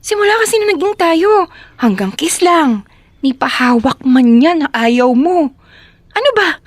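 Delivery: frustrated complaint, pitch leaping up; angry. Acted. Girlfriend complaining that he refuses intimacy, angry. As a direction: vent the pent-up grievance. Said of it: "bakit galit na galit ka".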